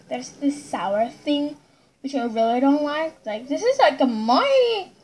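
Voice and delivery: lips on bottle rim; muffled by bottle mouth; talking into a bottle. Real, not acted. Seen 3: No chewing seen; from 1.2 she speaks with bottle pressed to mouth.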